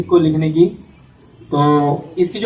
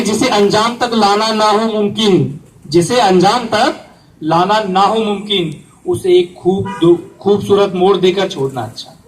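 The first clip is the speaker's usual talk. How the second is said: couplet recitation; 2 semitones higher than usual. Acted. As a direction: quote the couplet as a poet would. Quotes a famous poet's couplet. (शेर सुनाने का अंदाज़)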